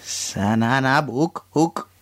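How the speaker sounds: slow reversed gibberish; backwards speech. Shown as a demonstration. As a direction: carefully sound out the reversed phrase. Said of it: "Okay, I'm gonna try too".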